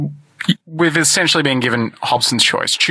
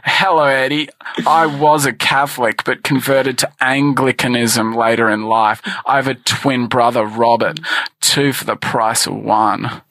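sexy contestant voice. Acted. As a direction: lay on the charm like a dating-show contestant. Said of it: "hard to focus on the topic with this voice".

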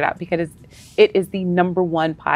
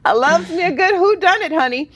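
sassy voice; 9 semitones higher than usual. Pretend. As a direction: play it sassy and campy. Sassy put-on voice.

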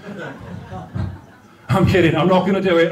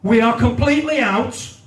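wife's posh voice; 6 semitones higher than usual. Retold or imitated. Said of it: "my wife genuinely once said".

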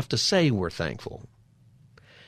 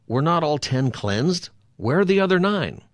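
stern, accusing question, rising high on the last line; stern Jesus question; 5 semitones higher than usual. Shown as a demonstration. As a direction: demand where the other nine went. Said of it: "I bet he's not, like, mad".

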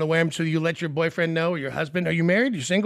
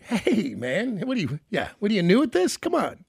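mock protest; 3 semitones higher, slower than usual. Host voicing the caller to her boyfriend, mock protest.

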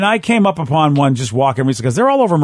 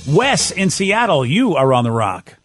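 stretched-out, punchy station ident read; radio announcer; slower than usual. Acted. Host introducing the next caller on air, radio announcer. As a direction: roll out the call letters slowly like a DJ.

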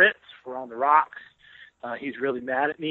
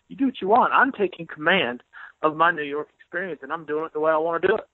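mock-defiant, slowing on taking command; defiant retort; 2 semitones higher than usual. Columnist tells colleague he's taking command, mock defiance. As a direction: lay down the law, half-joking. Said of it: "I said".

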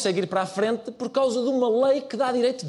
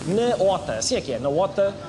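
airline captain announcement. Pretend. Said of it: "é novamente o comandante Araújo Pereira".

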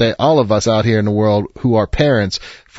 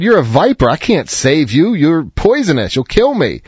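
alarmed man; 5 semitones higher than usual. Acted. Man refuses the snake.

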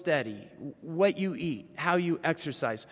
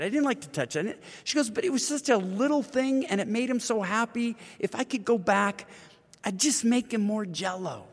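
lightly voiced widow, higher and rushing; widow's voice; 7 semitones higher than usual. Widow explains the Jell-O to Paul, higher, rushed voice. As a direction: tell it as a grieving widow pouring out regret.

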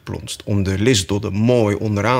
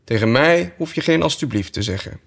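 a hint of a prim sheep; dry sheep reply; 5 semitones higher than usual. Sheep replies to Alice while knitting, mildly prim. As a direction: answer without looking up. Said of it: "zei het schaap".

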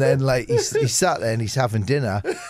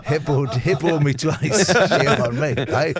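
laughing; 3 dB louder than usual. Real, not acted. Laughing through joke proverb.

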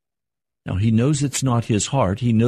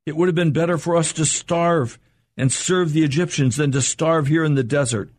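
higher and accusing, a whining crowd; complaining Israelites; 5 semitones higher than usual. Retold or imitated. Frightened Israelites complaining to Moses, higher and accusing. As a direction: throw the blame at Moses. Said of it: "They said to Moses".

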